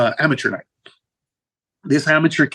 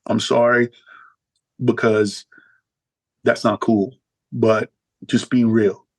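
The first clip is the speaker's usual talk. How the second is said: lower tough guy voice; 4 semitones lower than usual. Retold or imitated. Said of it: "He's like".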